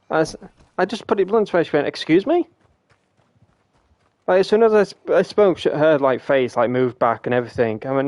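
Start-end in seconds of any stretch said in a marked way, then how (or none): 1.9-2.5 higher, rising disbelief; affronted mum. Retold or imitated. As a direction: imitate a mum taken aback. Mum reacts to blunt news.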